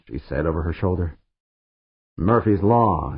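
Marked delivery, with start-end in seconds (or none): 2.2-3.2 slow growl. Acted. Dan grumbling after Pancho as she leaves, slow grumble. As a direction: drag out Murphy's Law grumpily. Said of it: "Dan growled after her".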